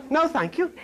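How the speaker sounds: a light British accent, mimicking Eve's reply; mock British accent. Preacher imitating Eve's British accent to the congregation. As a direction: say it like a polite Englishwoman. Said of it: "You hear that British accent?".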